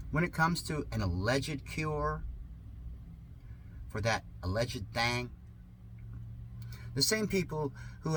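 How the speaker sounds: sarcastic reading. Acted. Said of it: "Yes, this is sarcasm".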